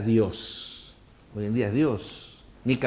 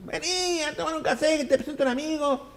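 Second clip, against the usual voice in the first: calling from balcony. Retold or imitated.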